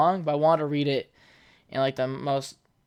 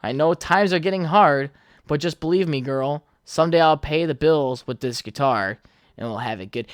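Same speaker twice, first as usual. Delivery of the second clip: put-on old tone voice. Shown as a demonstration. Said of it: "in my old tone voice".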